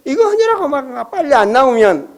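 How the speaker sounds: normal talking voice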